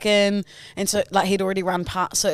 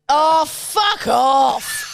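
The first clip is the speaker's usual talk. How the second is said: drawn-out, higher mock shout; retold retort; 4 semitones higher, much slower than usual. Co-host answering a boy's heckle, mock shout. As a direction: throw it back at the heckler.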